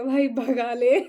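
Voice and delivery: loud laughing shout to the driver; begging the auto driver to floor it, laughing loud; laughing urge. Retold or imitated. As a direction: yell it through a laugh, urging him on. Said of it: "मैंने कहा".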